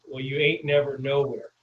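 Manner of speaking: Southern twang. Retold or imitated. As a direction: lay on a hint of Southern accent. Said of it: "like, that Southern twang".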